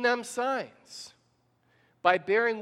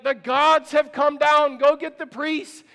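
excited crowd; 5 semitones higher, 8 dB louder, slower than usual. Retold or imitated. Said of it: "and they're like".

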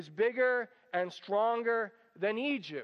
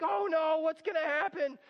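higher, fretful mock voice; mock worry; 7 semitones higher than usual. Us worrying when people ignore God's word, lightly mock-anxious. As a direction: fret like someone who thinks all is lost. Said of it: "and we think".

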